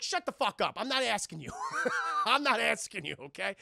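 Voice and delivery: mock-angry outburst; irritated silencing. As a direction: cut someone off in playful exasperation. Han snapping at C-3PO, retold.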